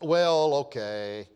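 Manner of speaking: mock unemotional "well, okay"; stoic, no passion. Preacher mimics a prayer that misses the mark, stoic. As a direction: act it indifferent, without passion. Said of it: "all stoic, no emotion, no passion".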